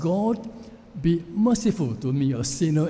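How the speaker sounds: put-on young street preacher proclaiming the verse; preaching from a bench. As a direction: proclaim it to a crowd in the park. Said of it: "preaching on the text".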